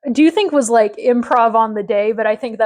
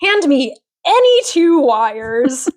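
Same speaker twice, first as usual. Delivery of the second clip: quoting the doctor; 3 semitones higher, much slower than usual. Retold or imitated. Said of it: "the doctor says".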